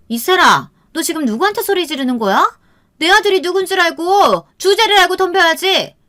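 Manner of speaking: high-pitched, haughty aunt's rebuke; angry scolding. A narrator's reading. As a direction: tell off a child, pitch rising sharply. Aunt scolds child who yelled. (아이를 다그치는 높고 화난 목소리)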